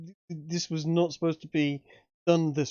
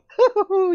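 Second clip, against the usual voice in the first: high, loud villain cackle; evil cackle; 10 dB louder than usual. Acted.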